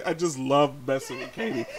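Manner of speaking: ordinary delivery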